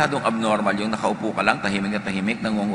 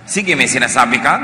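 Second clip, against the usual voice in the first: ordinary talk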